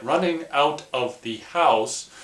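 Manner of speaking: slow, careful "running out of the house", every word clear; proper version. Shown as a demonstration. Correcting his own slang for viewers, slow and proper. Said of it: "the non-ghetto way to say it".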